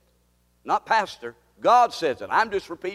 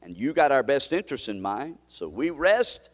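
intercede gently for the hurting; pastoral prayer; 3 semitones lower than usual. Real, not acted. Pastor praying over the discouraged in his church, gentle.

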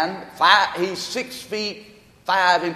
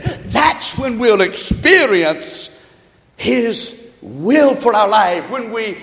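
fervent preaching; 2 semitones higher than usual. Real, not acted. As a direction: stretch the key words as you preach. Preaches with fervour.

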